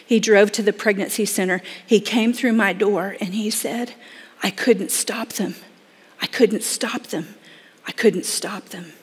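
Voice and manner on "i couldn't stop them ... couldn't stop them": slow, hushed, defeated repeat; softer, slower quote of a broken young man; a touch of grief. Retold or imitated. Heartbroken boy after the abortion.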